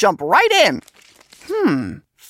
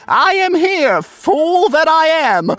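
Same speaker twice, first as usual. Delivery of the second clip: hammy Shakespearean squire; pompous olde-English player voice; hammy stage actor; 2 semitones higher than usual. Acted. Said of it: "an actor with Shakespeare".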